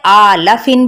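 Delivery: आ ला फिन with long आ, short ला; uneven stretching. Shown as a demonstration. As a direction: stretch only आ and hurry through ला फिन. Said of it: "भी नहीं पढ़ना". (सिर्फ आ लंबा, ला छोटा)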